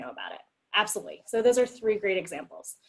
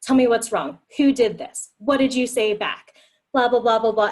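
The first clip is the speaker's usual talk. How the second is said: louder, eager barrage of questions, one after another; rapid-fire questions; 3 semitones higher, 6 dB louder than usual. Retold or imitated. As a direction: fire off questions at a frustrated partner. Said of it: "jump in and ask eight hundred questions".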